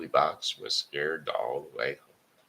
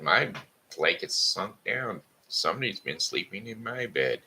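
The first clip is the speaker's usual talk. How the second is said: higher mama bear voice; fussy mama bear, pitched up; 5 semitones higher than usual. Acted. Mama Bear finds her bed slept in, higher voice.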